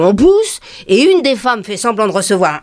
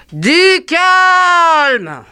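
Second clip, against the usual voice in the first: higher call over a crowd; raised call to calm down; 7 semitones higher than usual. Retold or imitated. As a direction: settle the panicked shoppers. Calming a panicking crowd.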